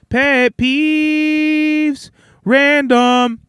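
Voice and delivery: drawn-out, high-pitched title call; segment announcement. Pretend. Host moving on to pet peeves, drawn-out announcement. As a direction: sing out the segment name.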